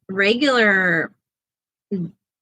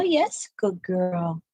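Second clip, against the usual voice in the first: soft praise; 4 dB quieter, much slower than usual. Real, not acted.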